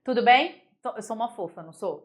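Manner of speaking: ordinary talk, nothing marked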